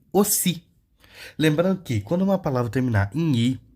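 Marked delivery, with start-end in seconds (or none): 0.1-0.6 "aussi" higher, starting on a closed o; French au sound. Shown as a demonstration. Teacher showing A U as o, French pronunciation. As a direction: say "aussi" as o-SEE. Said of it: "E o A U também".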